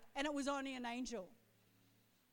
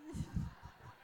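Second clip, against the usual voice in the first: soft, unvoiced chuckle; hushed amused laugh; quiet laugh; 7 dB quieter than usual. Real, not acted. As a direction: laugh quietly under your breath. Laughs after joking about herself.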